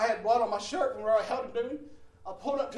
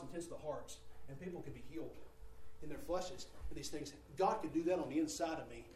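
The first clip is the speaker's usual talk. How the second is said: softer, lower earnest prayer; sincere hushed prayer; 5 semitones lower, 4 dB quieter than usual. Retold or imitated. Preacher retelling his late-night prayer, soft and sincere. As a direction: confide in God quietly.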